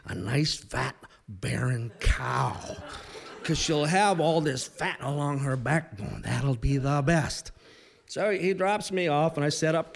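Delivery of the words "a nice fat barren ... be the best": exaggerated Midwestern accent, stretched and deliberate; Don Sheldon. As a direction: imitate a pilot's slow Midwestern advice. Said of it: "he said that several times".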